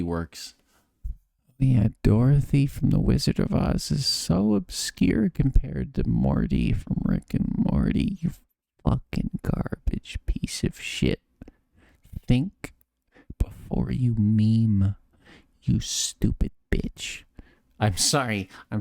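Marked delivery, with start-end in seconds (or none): 1.6-8.2 sarcastic. Acted. Mocking chat comment. 8.2-17.2 slow hissed insult; angry whisper. Acted.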